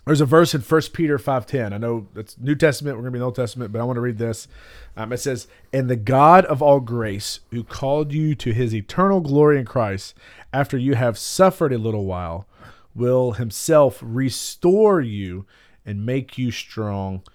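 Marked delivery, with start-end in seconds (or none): 5.7-17.2 scripture reading. Real, not acted. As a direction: read it deliberately, weighting each phrase. Reads a Bible verse aloud.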